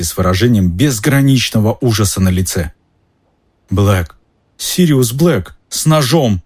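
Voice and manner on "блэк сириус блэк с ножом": high, panicked alarm; panicked cry. Acted. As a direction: blurt it out in terror. Ron wakes in terror.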